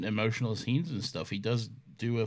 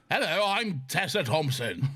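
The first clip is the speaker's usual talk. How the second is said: lightly put-on film character voice; Tessa Thompson; 3 semitones higher than usual. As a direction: do a quick, hammy mock impression. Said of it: "where she's like".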